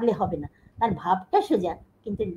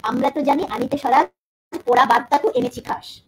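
poetry recital; 3 semitones higher, 5 dB louder than usual. Shown as a demonstration. Teacher reciting Nazrul's couplet to the class, loud and declaimed. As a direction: recite the verse out loud, stressing জানি and এনেছি. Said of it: "line দিচ্ছি".

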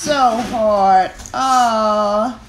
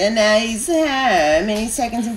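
flirty tone. Acted. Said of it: "Mom, no, please don't talk like that".

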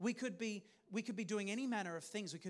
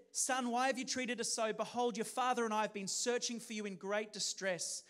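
distressed mother; 2 semitones higher, 5 dB louder than usual. Shown as a demonstration. Mother finding her missing son, distressed and louder. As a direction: let the worry spill out as a frantic mother. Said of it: "and it would be distressing".

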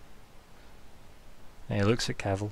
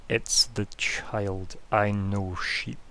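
slow dog message; 4 semitones lower, 4 dB quieter, much slower than usual. Acted. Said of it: "the message it says to you is".

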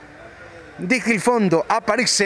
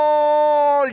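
goal shout; 4 semitones higher than usual. Real, not acted. Goal called in live commentary.

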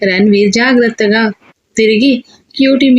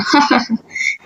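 scornful laugh; 5 dB quieter than usual. A narrator's reading. Arrogant laugh before boast.

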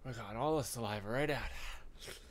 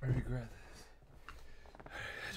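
whispering; 6 dB quieter, much slower than usual. Real, not acted. Mouth burning from sauce.

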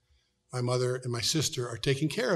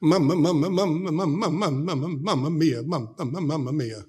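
happy greeting; 2 semitones higher than usual. Retold or imitated. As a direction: chirp it out, delighted to see visitors. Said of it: "she would be happy to see us".

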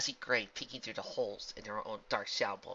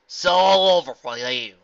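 confident; 2 semitones higher, 15 dB louder, slower than usual. Acted. Applejack confronts villain.

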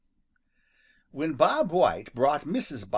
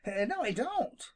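high quick denial; exclaiming; 10 semitones higher than usual. Acted. Rabbit hastily denying to Jimmy, high. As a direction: blurt it out. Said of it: "exclaimed Peter".

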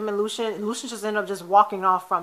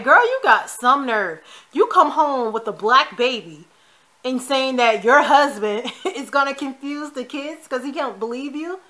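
sassy disbelief; 3 semitones higher than usual. Pretend. Talking back to Alex.

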